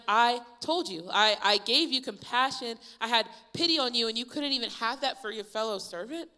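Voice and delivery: loud, high, acted indignation; furious master. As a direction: scold hard in outraged disbelief, easing off at the end. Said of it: "he's furious. He's so angry".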